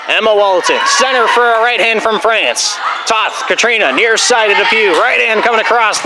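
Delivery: brisk, engaged rally commentary; name each player as the ball moves; live play-by-play. Real, not acted. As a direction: volleyball commentator tracking a long rally.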